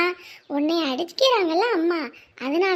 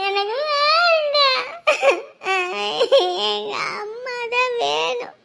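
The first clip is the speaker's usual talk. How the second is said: sobbing refusal; 3 semitones higher, slower than usual. Acted. Child refuses, wants mother.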